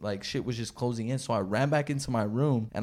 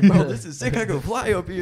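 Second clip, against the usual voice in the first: high, loud, thrilled flyer; gleeful at flying in the coma; excited gamer; 6 semitones higher, 6 dB louder than usual. Pretend. Playing the game in a coma, high and thrilled. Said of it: "I'm like".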